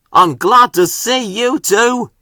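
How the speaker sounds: light up with relief; exclaimed gladly. Acted. Murdoch greeting his rescuers, glad and relieved. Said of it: "exclaimed Murdoch".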